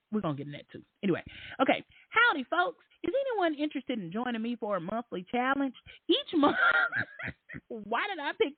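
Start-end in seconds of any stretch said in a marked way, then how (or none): 2.1-5.7 high, chirpy voice reading a post; mock a cheery poster; high mock-friendly read; put-on voice. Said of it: "That's not my voice". 6.1-8.6 laughing. Real, not acted.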